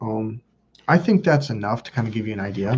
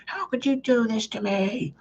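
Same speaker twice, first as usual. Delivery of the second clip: high, soft, wobbly mock wail, slowed down; imitating his family's fake tearful guilt trip; mock whiny crying; 11 semitones higher, 6 dB quieter, slower than usual. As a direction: ham up a self-pitying sob. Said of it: "they were just like".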